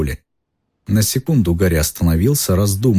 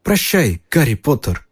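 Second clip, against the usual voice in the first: house elf; 7 semitones higher than usual. A narrator's reading. Dobby farewell.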